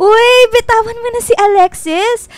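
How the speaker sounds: playful scolding. Acted. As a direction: break up the tussle, laughing. Friends grappling, she intervenes.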